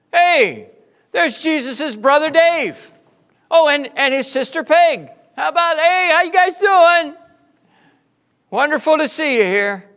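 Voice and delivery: Jesus introducing believers around heaven, high and loud with joy; joyful greeting. Pretend. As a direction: throw your arms open, thrilled to introduce them. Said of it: "He will introduce you around heaven".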